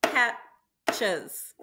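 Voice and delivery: Patches split into two clapped beats, PAT and CHES; clapped syllables. Shown as a demonstration. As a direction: tap out Patches one syllable at a time. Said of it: "it would sound like this".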